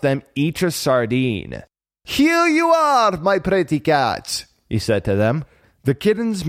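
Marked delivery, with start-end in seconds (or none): 2.0-4.5 high, slow greeting in a fishmonger's voice; friendly fishmonger. A narrator's reading. Fishmonger tossing sardines to kittens, friendly. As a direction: offer the treat in a drawn-out, high-pitched call.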